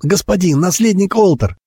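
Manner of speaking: high, lightly choked plea; half-strangled croak. A narrator's reading. Boy held by the collar calls the heir, half-strangled. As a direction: plead high through a squeezed throat. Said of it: "полузадушенно хрипнул он".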